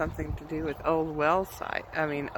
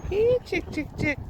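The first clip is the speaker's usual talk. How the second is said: high sing-song chicken call, louder; 14 semitones higher, 4 dB louder than usual. Real, not acted. Calling chickens again.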